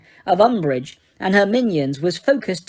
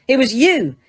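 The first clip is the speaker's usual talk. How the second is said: gasped; 6 semitones higher, 4 dB louder than usual. A narrator's reading. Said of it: "gasped Harry".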